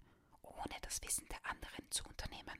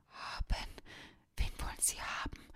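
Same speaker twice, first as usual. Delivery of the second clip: gasping; 6 dB louder than usual. Acted. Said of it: "keuchte Dominik".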